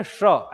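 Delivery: श slightly caught at the roof; slightly caught retroflex. Shown as a demonstration. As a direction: retroflex "sh" for श, tongue catching above. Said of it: "ऐसा थोड़ा अटका हुआ".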